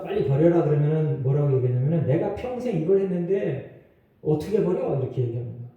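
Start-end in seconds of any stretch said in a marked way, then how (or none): 2.1-5.0 mock defiant comeback, slightly higher pitch; defiant retort. Church member balking at dropping bad habits, defiant. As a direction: talk back in mild protest. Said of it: "이렇게 대들어요".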